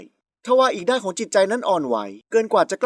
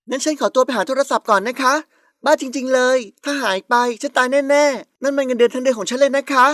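higher, hammed-up fretting; feigned panic; 4 semitones higher than usual. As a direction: make a big show of panicking to escape. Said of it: "พร้อมกับทำการแสดงชุดใหญ่". (แกล้งโวยวายร้อนรน)

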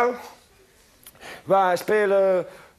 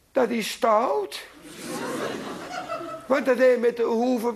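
hoger, traag en zacht klagend; klagend kind; 3 semitones higher, slower than usual. Acted. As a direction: klaag als een verdrietig kind. Kind klaagt bij vader. (kindje klaagt zacht bij vader over de stoute jongen)

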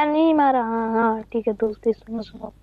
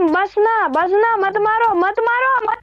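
pleading; 4 semitones higher, slower than usual. Pretend. Begging not to be hit.

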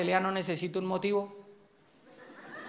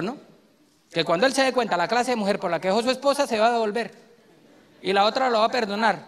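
a hint of a chatty wife, louder; lightly voiced wife; 5 dB louder than usual. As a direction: gossip about the soap like the wife. Esposa comentando la telenovela. (esposa que comenta la telenovela, un poco más fuerte)

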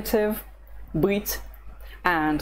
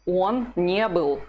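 slow model answer; slower than usual. Shown as a demonstration. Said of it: "How would you say".

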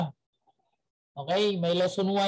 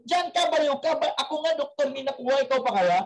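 mocking doctor; 4 semitones higher than usual. Doctor mocks madman again.

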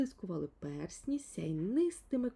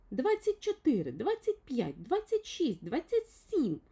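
lightly voiced little fellow counting the rings, higher; 7 semitones higher, 5 dB louder than usual. A narrator's reading. Little man counts the phone rings aloud, lightly voiced. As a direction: count each ring out loud, a little higher. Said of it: "лічив Півчеревичок".

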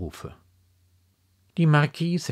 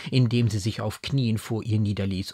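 plain reading voice

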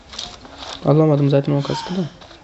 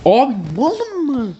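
exasperated; 5 semitones higher than usual. Real, not acted. Protests own bad play.

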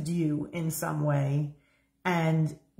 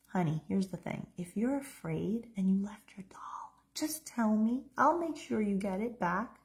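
gentle, soothing mother at the bedside; a loving mother calming her little girl; tender mother; 3 semitones higher, 4 dB quieter than usual. Shown as a demonstration. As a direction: comfort a scared child softly. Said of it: "I'm gonna demonstrate how this should have gone down for you".

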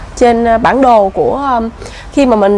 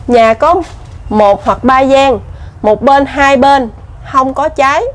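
slow, measured board reading; reading aloud; slower than usual. Real, not acted. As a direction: read out the sign phrase by phrase, slowly. Reads an information board aloud. (đọc bảng giới thiệu chậm rãi)

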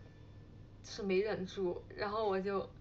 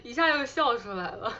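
laughing; 3 semitones higher, 3 dB louder than usual. Real, not acted. Laughs recalling the joke.

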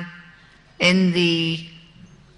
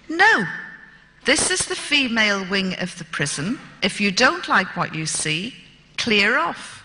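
defiant refusal. Retold or imitated. Refusing to remove her underwear.

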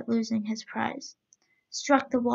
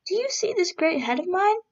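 booming giant's head; 7 semitones higher than usual. A narrator's reading. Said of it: "there came from it a great, great voice".

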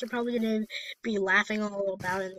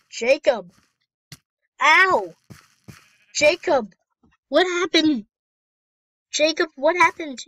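loud, higher cries of alarm; alarmed calling out; 6 semitones higher, 9 dB louder than usual. Pretend. Player calling to Jacob, a hurt villager, in alarm. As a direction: call out in hammed-up panic.

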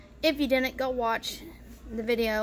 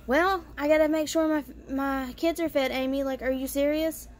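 mom's defensive voice; 4 semitones higher than usual. Retold or imitated. Mom scolds Amy.

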